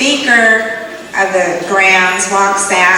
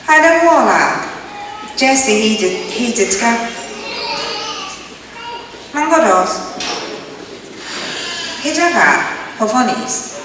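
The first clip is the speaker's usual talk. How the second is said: Creek men talking; 4 semitones higher than usual. Retold or imitated. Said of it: "they talk like this".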